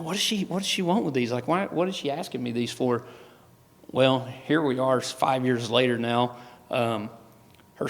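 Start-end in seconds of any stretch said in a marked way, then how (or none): 0.0-3.0 mildly baffled, higher-pitched retold question; puzzled questioning. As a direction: wonder it to yourself, starting high. Retelling own puzzled inner question.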